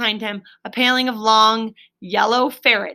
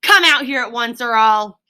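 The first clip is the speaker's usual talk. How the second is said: indignant Toad; 3 semitones higher, 3 dB louder than usual. Acted. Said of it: "said Toad very angrily".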